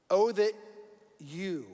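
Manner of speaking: slow reading with long pauses. Shown as a demonstration. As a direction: set each phrase apart, unhurried. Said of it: "let's read it again a little slower".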